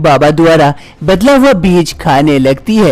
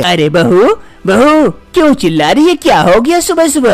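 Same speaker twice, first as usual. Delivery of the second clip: higher, startled mother-in-law; alarmed mother-in-law; 5 semitones higher than usual. Acted. Mother-in-law hears the cries and runs in, higher and alarmed. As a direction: rush in asking what happened.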